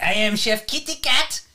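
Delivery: a hint of a silly French chef; mock French chef. Chef Kitty Cat greeting listeners, light French accent. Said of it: "are we stuck on Chef Kitty Cat".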